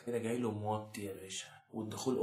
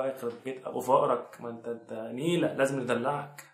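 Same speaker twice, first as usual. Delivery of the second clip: mock scolding; 6 dB louder than usual. Host mock-scolds viewer.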